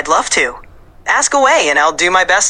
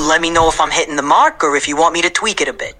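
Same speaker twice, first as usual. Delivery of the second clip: New York Puerto Rican accent. Shown as a demonstration. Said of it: "How's this for a New York Puerto Rican accent".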